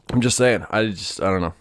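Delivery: normal talking voice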